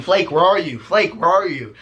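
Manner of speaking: calling a name. Acted. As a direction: call out as if for a lost dog. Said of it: "looking at my pool going".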